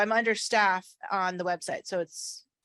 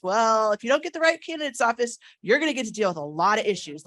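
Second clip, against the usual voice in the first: emphatic; 3 semitones higher, 6 dB louder than usual. Real, not acted. Emphatic speech to members.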